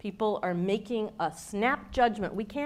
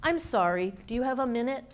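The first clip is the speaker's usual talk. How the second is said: apologetic; 3 semitones higher, faster than usual. Acted. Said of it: "one of the examples in the video is a woman knocking".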